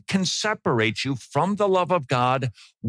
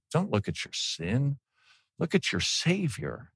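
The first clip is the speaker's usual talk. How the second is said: hushed appeal; 2 semitones higher, 6 dB quieter than usual. Real, not acted. Preacher urging the flock softly. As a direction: drop to a soft earnest plea.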